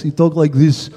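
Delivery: lightly mimicked Russian accent; Russian-accented impression of a mechanic; big Russian voice. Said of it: "He's got a big Russian voice".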